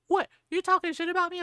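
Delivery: high-pitched mock outrage; retold indignant challenge. Harasser confronting the woman on the train, indignant. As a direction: imitate an affronted man picking a fight.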